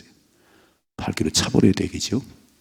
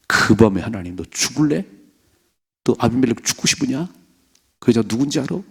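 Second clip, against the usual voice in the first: God's stern rebuke, pitched up; God scolding; 3 semitones higher than usual. Retold or imitated. God confronting King Abimelech, stern and pitched up. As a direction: demand it like an angry God. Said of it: "하나님 막 득달하시잖아요".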